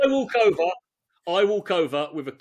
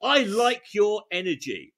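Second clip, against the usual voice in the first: genuine confident; 4 semitones higher, 4 dB louder than usual. Shown as a demonstration. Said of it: "In a genuine, confident tone".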